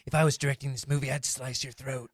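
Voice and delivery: a hint of a stern martial-arts star scolding; calm, menacing tough guy, lightly done; Steven Seagal impression. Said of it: "I'm definitely going to be Steven Seagal".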